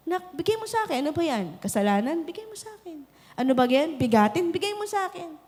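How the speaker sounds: put-on soft, gentle coaxing of a child; God gently asking his child; tender voice of God.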